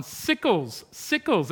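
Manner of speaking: lightly imitated Southern accent, insistently repeated; broad Deep South accent. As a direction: keep offering it in a mild Deep South accent. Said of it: "And he kept going".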